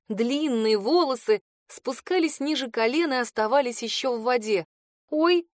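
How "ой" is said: high, louder startled squeak; a sudden higher yelp of surprise. Acted. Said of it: "пискнула я".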